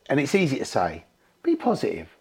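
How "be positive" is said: lightly mocking, brisker and higher on the second phrase; mock pep talk. Everyone telling them to be positive, mocking pep talk. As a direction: parrot the stock advice. Mimicking people's stock advice.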